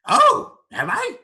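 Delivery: very high, loud creature voice; surprised creature. Acted. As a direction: exclaim as a startled creature. Creature reacts to its name.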